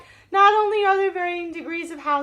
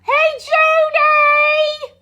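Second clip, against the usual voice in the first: higher, louder very slow call; excited greeting; 10 semitones higher, 8 dB louder, much slower than usual. Real, not acted. Host greeting Judy in the chat, slow and loud. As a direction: draw the hello out long and bright.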